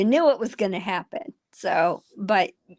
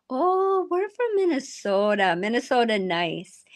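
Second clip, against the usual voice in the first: mock Minnesota nice; 3 semitones higher than usual. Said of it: "we're not California, we're not New York".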